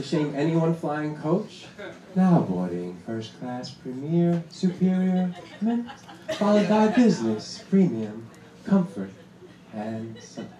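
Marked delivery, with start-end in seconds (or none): 2.2-10.5 mock gate-agent PA call; boarding announcement. Airline announcer shaming coach flyers, mock gate-agent call. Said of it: "the way they announce the boarding classes".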